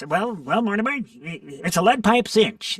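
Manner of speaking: ventriloquist dummy voice. Recalling an old radio ventriloquist act, the speaker quotes the dummy: Charlie McCarthy dummy voice. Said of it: "and he talked like this".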